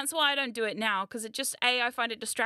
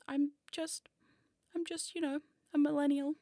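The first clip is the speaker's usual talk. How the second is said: put-on old hag voice; 3 semitones higher, 4 dB quieter than usual. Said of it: "now I'm a hag, clearly".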